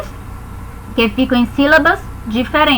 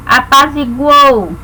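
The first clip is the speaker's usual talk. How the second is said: slow demo word; slower than usual. Shown as a demonstration.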